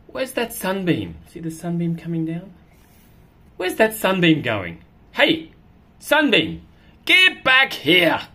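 lively cat voice, calling after the sunbeam; cat chasing a sunbeam. Acted. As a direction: play the cat, eager and a bit indignant.

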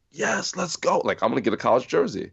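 신난 목소리; eager excitement. Retold or imitated. Eager young player at tryout.

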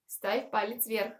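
usual speaking voice

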